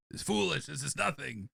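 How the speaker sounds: lightly put-on Russian voice; hammy Russian scorn; Russian accent. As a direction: dismiss it with a mock Russian accent. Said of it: "why he's gonna be Russian".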